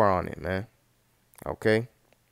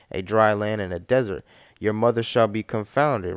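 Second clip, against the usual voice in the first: booming Bible reading from the pulpit; scripture reading; 4 dB louder than usual. Acted. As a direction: proclaim the verse like a preacher. Reads Jeremiah passage aloud.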